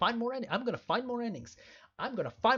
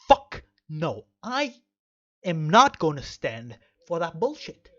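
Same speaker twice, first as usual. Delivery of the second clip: louder, slow and deliberate, hammed-up defiance; mock-stern refusal; 2 semitones lower, 7 dB louder, slower than usual. To the viewers demanding they refuse the ending, hammed-up stern and loud. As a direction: lay down the law like a cartoon tough guy.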